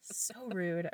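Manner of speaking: high, slow mock indignation; mock outrage. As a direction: play up the fake offense. Teasing co-host for yawning.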